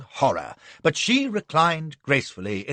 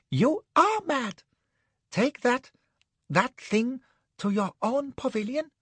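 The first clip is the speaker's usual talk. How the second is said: outraged man; 11 semitones higher than usual. Acted. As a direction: protest in alarm. Anne objects.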